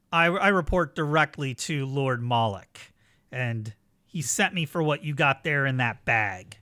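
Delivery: projected villain's explanation; calling up. Acted. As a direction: declare it across a parking lot. Villain keeps calling up to players.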